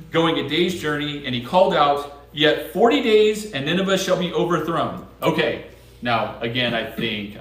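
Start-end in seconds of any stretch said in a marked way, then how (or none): 2.3-5.1 proclaiming. Acted. Prophet's warning read aloud.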